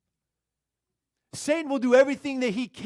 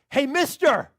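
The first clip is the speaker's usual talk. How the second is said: higher-pitched parrot call; talking parrot; 5 semitones higher, 4 dB louder, slower than usual. Acted. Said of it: "he hears these words".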